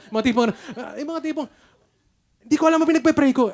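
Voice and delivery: high, loud laughing exclamation. Real, not acted. Pastor laughing at his blank prayer, high and loud. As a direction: laugh through the confession, rushing.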